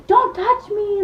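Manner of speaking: high-pitched acted outburst; angry protest. Girl warning the guy off, angry protest. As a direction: recoil with a high, indignant mock cry. Retold girl rejects being touched.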